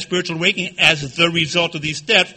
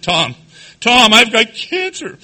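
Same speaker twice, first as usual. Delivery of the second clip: slow, high, hammed-up wail; mock hysterical crying; 4 semitones higher, slower than usual. Man calling his sponsor with bad news, mock crying. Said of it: "I'm hysterical. I'm crying".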